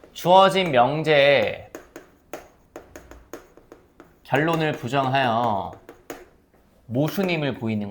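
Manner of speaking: slowly spelled out for dictation; slow and deliberate like writing on the board; slow definition. Shown as a demonstration. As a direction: say each phrase slowly so they can write it down. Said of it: "잘 봐봐".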